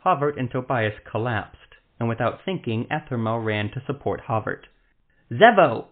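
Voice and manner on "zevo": a sudden high shriek of a name; high, loud panicked shriek. Acted. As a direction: cry out his name in alarm. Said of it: "he shrieked".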